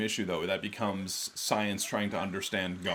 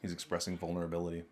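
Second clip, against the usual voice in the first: laughing; 3 semitones lower, 7 dB quieter than usual. Real, not acted. Mocking the show's dialogue.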